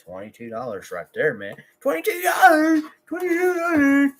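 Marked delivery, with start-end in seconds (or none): 1.8-2.8 high squeaky gleeful voice, far above his own. Pretend. Vlogger squeals his earnings in a cartoon voice. 3.1-4.1 high squeaky gleeful voice, far above his own. Pretend. Vlogger squeals his earnings in a cartoon voice.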